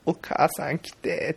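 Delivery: 少し高く、ゆっくり伸ばす子供の真似; 軽く泣きまねで母を呼ぶ; 泣いて呼ぶ子供. Retold or imitated. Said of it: "って泣いてんねんけどさ". (泣いて母を呼ぶ子供を軽くまねて)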